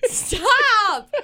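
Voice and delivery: laughing. Real, not acted. Laughing, embarrassed by co-host.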